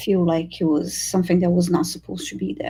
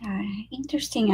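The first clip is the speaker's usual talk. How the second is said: whispered; 5 dB quieter than usual. Real, not acted. Quiet aside after a reading.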